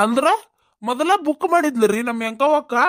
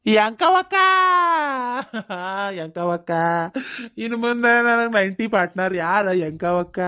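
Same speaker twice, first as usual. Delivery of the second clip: drunken mock lament; 3 semitones lower than usual. Drunk headman laments drinking partner.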